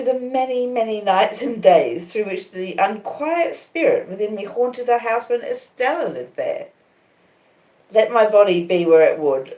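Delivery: usual speaking voice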